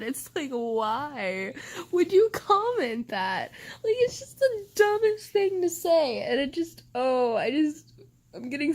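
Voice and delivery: exasperated outburst; angry rant. Real, not acted. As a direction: throw up your hands in disgust.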